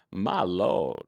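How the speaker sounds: Southern drawl from Georgia, lightly done; a hint of a Georgia Southern lilt; easy Southern Georgia accent. Shown as a demonstration. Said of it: "someone from Georgia, I'll be like".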